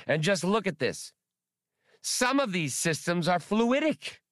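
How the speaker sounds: high, fussy squeaking creature; squeaky voice. Acted. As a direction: squeak it out like a fretful rodent. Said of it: "Spray squeaked after him".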